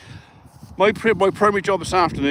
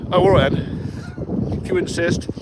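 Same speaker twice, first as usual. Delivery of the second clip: sarcastic drawl; 2 semitones higher, slower than usual. Retold or imitated. Sarcastic reply to neighbour's news.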